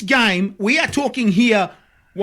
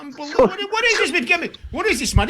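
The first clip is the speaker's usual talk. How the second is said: higher-pitched, incredulous outburst; 8 semitones higher, faster than usual. Real, not acted. Host reacting to football clubs signing by religion, incredulous. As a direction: exclaim in real disbelief.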